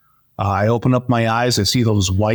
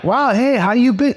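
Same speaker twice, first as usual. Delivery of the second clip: much higher, bright and eager hello; excited greeting; 10 semitones higher than usual. Retold or imitated. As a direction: greet a long-lost buddy in delight. Friends greeting at reunion.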